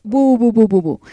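string of short playful boos; mock booing. Host booing a nominated song for listeners, mock booing. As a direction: boo the song in short repeated bursts. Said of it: "Así que abucheos, por favor".

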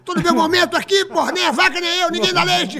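high, loud, laughing yell; laughing mock rant. Farmer complaining to the audience, hammed-up laughing shout. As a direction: keep ranting through the laughter.

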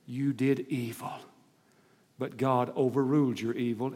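hushed, tender Joseph to his brothers; Joseph's verdict, quiet. Acted. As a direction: say it softly, like a brother forgiving. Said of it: "And Joseph says".

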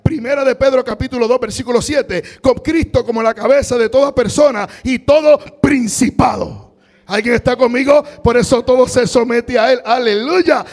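loud, high, fervent preacher; rousing pulpit cry; preaching at full force. Acted. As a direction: proclaim it to the whole church.

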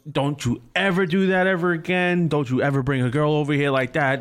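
retold scolding, starting high and easing down; mildly voiced livid mom. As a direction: imitate a mother laying down the law. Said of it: "She was livid".

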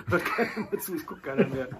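laughing through the words; giggling repeat, pitch up. Real, not acted.

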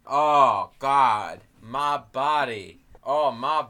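lightly voiced woozy lament; hammed-up self-pitying moan; moaning shaman. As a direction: groan it out in drawn-out mock agony. Shaman bemoaning his body.

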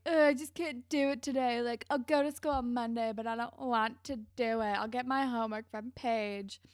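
mildly put-on reluctant teen; whiny excuse. Girl faking sick begs off school, mildly whiny. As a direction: plead off school with a groan.

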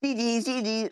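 high, loud gloat of GG; gloating shout. Real, not acted. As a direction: crow GG at your friend. Gloating after winning round.

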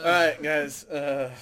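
dreaded meeting opener. Retold or imitated. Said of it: "when someone goes".

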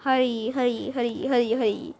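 echoing hurry, hurry; echo effect. Shown as a demonstration. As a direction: Hurry repeated, fading like an echo. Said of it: "That's my echo for the voice".

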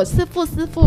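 mimicking Taiwanese accent. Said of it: "他们就学我".

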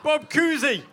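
put-on weak Boston accent; a hint of Boston accent. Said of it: "I just did my Boston accent".

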